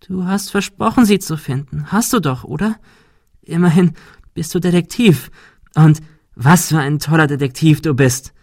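high, mocking female-character voice; taunting figure. A narrator's reading. Monika apparition taunts the detective, high and mocking.

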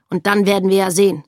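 the officer commanding father and daughter; stern order. Acted. (laut befehlend)

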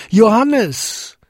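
high, drawn-out shout of a name; calling loudly. A narrator's reading. Father gets no answer from his son, calls loudly. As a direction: call as far as the voice carries. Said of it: "so laut er konnte".

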